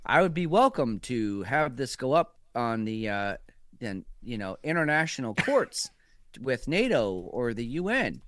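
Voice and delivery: lightly voiced measured Obama; a faint hint of a calm, lawyerly president; understated Obama, barely changed from his own voice; Obama impersonation. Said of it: "let me do my Obama impersonation".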